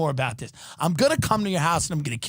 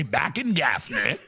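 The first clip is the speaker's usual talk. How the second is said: a touch lower, father's folksy saying; 5 semitones lower, slower than usual. Retold or imitated. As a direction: drawl it lightly like an old Southern dad. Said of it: "My father used to say".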